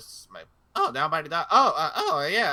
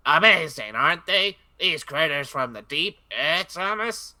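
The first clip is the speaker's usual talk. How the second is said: a hint of an old dockside engine, slow and louder; Salty; 4 semitones higher, 4 dB louder, slower than usual. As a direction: drawl it out like a salty old sailor. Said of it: "I can do Salty".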